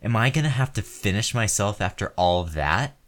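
enraged man yelling at the woman who stopped; furious shouting. Acted. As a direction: scream it at her in full fury. Escalating furious rant at partner.

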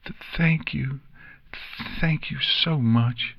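high, halting, overcome filly; sputtering. A narrator's reading. Nix thanks friends as tears come, high halting sputter. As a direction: stammer thanks through welling emotion. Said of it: "she sputtered out".

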